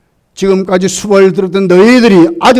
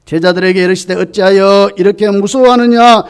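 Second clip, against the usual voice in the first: stern rebuke; 5 dB louder than usual. Retold or imitated. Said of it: "아주 심각한 꾸짖음이에요".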